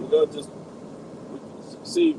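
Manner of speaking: staticky, distorted phone line; crackly cordless phone. Real, not acted. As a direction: voice crackling through a bad connection. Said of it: "Breaking up".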